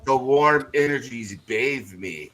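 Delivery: slow, drawn-out words from a contented imp; a hint of an imp basking in warmth; lightly voiced imp. Imp telling its master by telepathy it feels at home, lightly voiced and slow. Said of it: "in your mind, whodunit, you hear".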